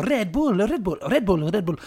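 a hint of Jim Carrey's chant; mimicking Yes Man. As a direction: repeat it like an excited character. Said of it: "He's a".

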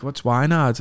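"Wynard" said in two beats, wrongly; puzzled crowd saying the wrong name; mispronouncing Wynyard. Retold or imitated. Baffled crowd member mangling the place name. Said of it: "people would be like".

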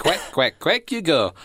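hammed-up, badly faked Scottish accent. Quoting Donald teasing Duck, bad Scottish accent. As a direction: quack it in a terrible Scottish accent. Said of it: "this is the worst Scottish accent ever".

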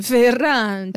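put-on slow, drawn-out Italian accent. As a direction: say Ferrante like an Italian. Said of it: "fazer essas coisas com sotaque italiano".

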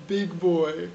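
words through a suppressed laugh. Real, not acted. Interviewer suggesting a name to the guest, laughing. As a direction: try to say it while cracking up. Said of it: "why you were laughing when you were saying that".

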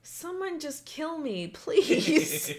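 high, laughing plea to be killed; mock despair. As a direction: whine it through laughter. Mortified teen pleading.

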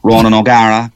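lightly voiced hushed sportsman impression; a touch of whispery, understated impersonation; Ronan O'Gara. Comedian contrasting one pundit with another, lightly hushed impression. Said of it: "he sounds totally different to George Hook".

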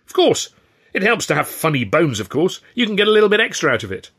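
high, emphatic know-it-all; boastful performer. A narrator's reading. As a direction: brush off the doubt and show off. Ed boasts, brushing off doubt.

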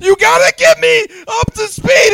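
sustained full-voiced shout for a mic test; yelling. Shown as a demonstration. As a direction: keep yelling, every phrase pushed out. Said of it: "Start yelling".

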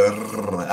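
"rrr" as a Scottish tongue-tip trill; rolled R. Shown as a demonstration. Scot showing the Scottish R, "rrr" rolled. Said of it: "we roll the R's".

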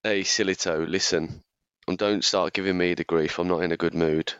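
low croaky voice from a cold; hoarse, under the weather. Real, not acted. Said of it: "as you can hear by my croaky voice".

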